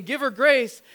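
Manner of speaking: put-on high, loud child's call; kid brother's plea. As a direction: shout it like a little boy. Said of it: "her brother saying".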